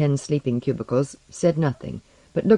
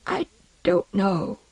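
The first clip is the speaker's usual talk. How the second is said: high, slow, tearful denial; frail and close to sobs; weak sobbing; 6 semitones higher, slower than usual. A narrator's reading. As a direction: whimper it feebly, drawn out. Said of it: "sobbing with weakness".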